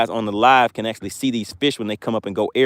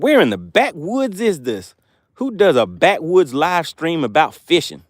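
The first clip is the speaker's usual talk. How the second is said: mock country accent; 4 semitones higher, slower than usual. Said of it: "And listen to his accent".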